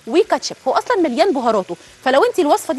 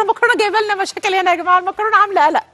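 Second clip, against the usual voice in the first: mock grievance; 7 semitones higher than usual. Mock complaint about pasta requests.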